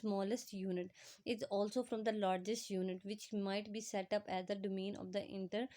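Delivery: reads the English definition word by word, very slowly; slow dictation reading. Acted. Teacher reading the textbook definition to students, slow dictation. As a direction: spell it out slowly for students to copy.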